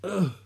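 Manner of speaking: half-asleep grunt; sleepy groan. A narrator's reading. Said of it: "and Johnny stirred".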